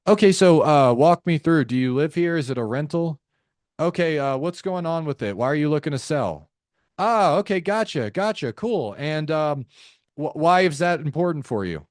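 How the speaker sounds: rote rep running through the script; mock robotic questioning, uninterested acknowledgements; robotic sales rep. Shown as a demonstration. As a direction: rattle off canned questions like a checklist. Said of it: "They sound like a robot".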